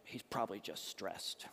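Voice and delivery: a hint of a dismissive family muttering; unemotional in-laws. Bride's family explaining away the crying groom, lightly voiced. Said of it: "so they're like".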